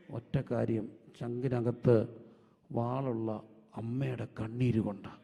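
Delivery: low-pitched, weighty pulpit delivery; deep, measured sermon emphasis; emphatic preaching. Real, not acted. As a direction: preach it low and firm, phrase by phrase.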